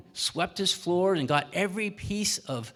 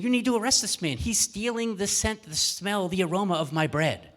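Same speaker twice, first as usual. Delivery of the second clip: indignant baker; 4 semitones higher, 3 dB louder than usual. Acted. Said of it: "the baker's saying".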